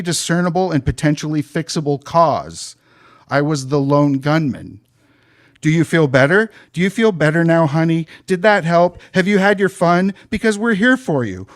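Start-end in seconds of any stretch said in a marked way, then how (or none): 5.6-11.5 sarcastic, rising higher mock-soothing; sneering mock comfort, building higher. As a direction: parody the condescending boss. Mocking the supervisor's line.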